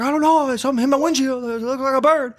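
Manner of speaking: high, lightly voiced driver, confused; imitating Milton. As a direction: play the bewildered driver. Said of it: "He's like".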